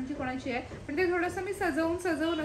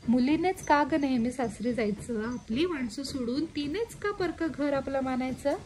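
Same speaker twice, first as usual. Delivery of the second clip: poem recital. Acted. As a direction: recite the granddaughter's questions gently. Reads poem to viewers.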